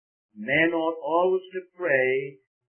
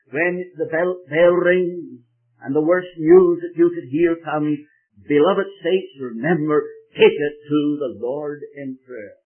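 louder, slow preaching to the saints; loud exhortation; 9 dB louder than usual. Retold or imitated. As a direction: urge them, slowly. Exhorting his audience, retold.

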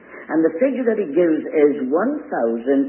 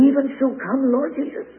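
mock high prayer; 12 semitones higher than usual.

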